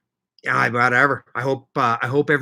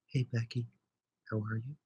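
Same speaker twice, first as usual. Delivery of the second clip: much softer, near-hushed mock of a quiet viewer; imitating a quiet voice; 17 dB quieter than usual. Shown as a demonstration. Teasing a quiet viewer by copying her, very soft. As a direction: drop right down to a tiny voice to tease her. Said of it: "You talk quieter".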